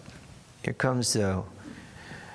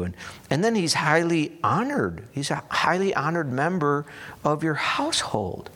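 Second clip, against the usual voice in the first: raised pitch, baffled appeal; acted disbelief, voice pitched up; shocked protest; 5 semitones higher than usual. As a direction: plead his case, bewildered. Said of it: "he's, like, shocked at this".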